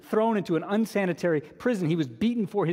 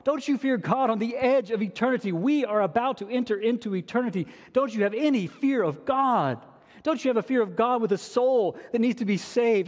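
urgent, higher-pitched pleading questions; loving rebuke; 5 semitones higher than usual. Acted. Thief rebuking the other thief out of love, urgent. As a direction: press each question home in earnest rebuke. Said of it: "so he rebukes him out of love".

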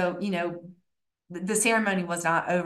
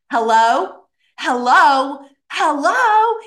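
rising, louder hello calls; imitating male caller; 6 semitones higher, 8 dB louder, slower than usual. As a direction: call out insistently, climbing each time. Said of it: "I hear this male voice".

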